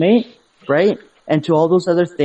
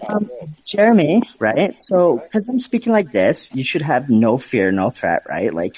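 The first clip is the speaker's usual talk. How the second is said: camp gay voice; 2 semitones lower than usual. Shown as a demonstration. Man showing his friend a harmless, no-threat tone, camp gay voice. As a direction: lilt it coyly, pitch sliding down. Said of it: "change up my tone of voice".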